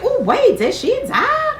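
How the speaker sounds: high, sudden "did she die" with a laugh; shocked reaction. Retold or imitated. Fan reacting to the episode, high and startled. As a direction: gasp it out as if the character just died. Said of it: "And I was like".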